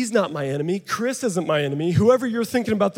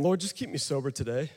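hushed prayer; 5 semitones lower, 10 dB quieter than usual. Retold or imitated. Quoted private prayer.

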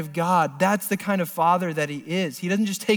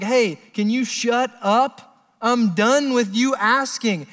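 annoyed dad; 5 semitones higher, slower than usual. Pretend. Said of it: "there's a certain point where he's like".

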